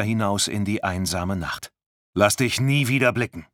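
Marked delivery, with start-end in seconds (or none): 2.1-3.5 angry yell. Acted. Driver yells after her.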